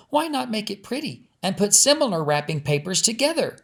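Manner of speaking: put-on little girl suggesting something pretty. Lizzie voiced.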